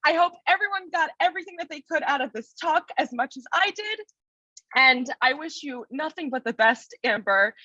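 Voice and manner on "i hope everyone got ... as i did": quick giggly words after crying; tearful laugh, hurried; laughing through tears. Real, not acted. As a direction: laugh off the emotion while speaking.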